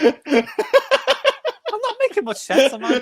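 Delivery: high, slow, laughing admission; giggling. Real, not acted. Giggling over own muddled talk.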